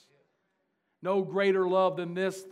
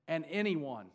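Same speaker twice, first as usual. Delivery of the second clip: anyone leaned on and held; stress on anyone; 3 dB quieter than usual. Shown as a demonstration. Pastor pointing the congregation to one word, stressed. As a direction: land on anyone, fall away. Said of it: "say anyone".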